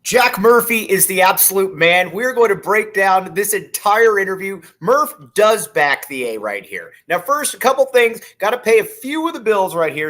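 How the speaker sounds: real excitement, pitch jumping up; excited. Real, not acted. Host hyping the interview he just did, excited. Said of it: "Sorry, I get really excited".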